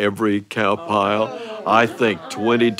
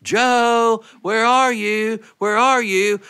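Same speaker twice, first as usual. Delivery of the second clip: calling out; 11 semitones higher, slower than usual. Retold or imitated. Father calls hiding sons to dinner, calling out. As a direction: call the boys from afar. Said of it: "He was calling".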